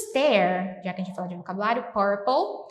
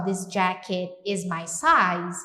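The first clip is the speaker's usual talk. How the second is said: slow model; 3 semitones lower, much slower than usual. Shown as a demonstration. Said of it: "então eu posso falar só".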